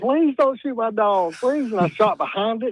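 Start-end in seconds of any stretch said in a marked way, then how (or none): 0.0-1.7 loud, hollered, yelled-out pleading. Retelling a dog owner's plea during a shotgun chase: imitating someone hollering. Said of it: "he was hollering".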